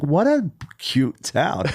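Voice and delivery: lightly voiced old lady, drawn out; old Jewish woman. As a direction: coo slowly, a hint of old Jewish woman. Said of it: "I sound like an old Jewish woman".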